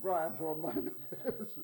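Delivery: laughs right through the last words, slowly; laughing. Real, not acted. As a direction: laugh it off as you finish the complaint. Laughing at grating accents.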